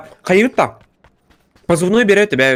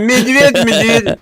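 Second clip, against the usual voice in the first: radio call voice; 6 semitones higher, 4 dB louder, much slower than usual. Pretend.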